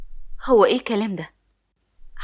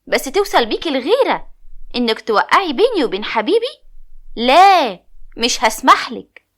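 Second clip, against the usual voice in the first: shouting angrily; 3 semitones higher, 5 dB louder than usual. Acted. Friend shouts at the narrator for trying to split her from her lover, furious yell. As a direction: yell at the jealous friend, building to a final shout. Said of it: "لقيتها بتزعق فيا".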